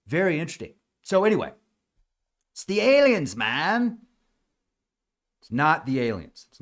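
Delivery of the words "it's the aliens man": high, loud, drawn-out mock awe; mock believer. Alien believer insisting to listeners, high mock excitement. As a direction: imitate a gullible alien believer.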